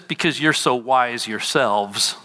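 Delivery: a touch of dry sarcasm in the retelling; sarcastic. Retold or imitated. Preacher quoting Paul to the congregation, mildly sarcastic. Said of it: "he says this sarcastically".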